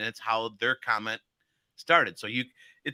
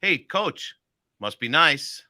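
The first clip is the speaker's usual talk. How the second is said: higher, bright "Hey, Coach" then firm "must be nice"; higher greeting; much slower than usual. Shown as a demonstration. Coach demos an upbeat hey coach must be nice. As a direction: lift "Hey" up high. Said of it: "three different ways".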